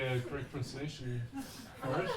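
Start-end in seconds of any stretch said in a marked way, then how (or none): 0.3-1.2 "pronunciation" said improperly; mispronounced word. Real, not acted. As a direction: get "pronunciation" slightly wrong while sounding sure. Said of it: "Although I didn't say pr-, pronunciation properly".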